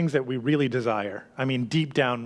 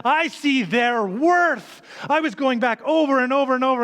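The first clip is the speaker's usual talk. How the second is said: owner's voice; 9 semitones higher, 4 dB louder than usual. Acted. Owner voiced in sermon parable.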